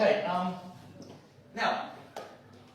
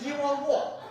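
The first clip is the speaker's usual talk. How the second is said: higher, laughing disbelief; baffled; 7 semitones higher than usual. Retold or imitated. Confused by the friend's answer, laughing disbelief. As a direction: ask it with an incredulous laugh.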